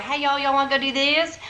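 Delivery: lightly put-on Texas twang; Texas y'all accent. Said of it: "lost your y'all accent".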